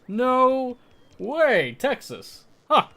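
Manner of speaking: high, loud no way; genuinely taken aback at the Texas guess; surprised. Real, not acted. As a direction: jump up in disbelief. Disbelief at being called Texan.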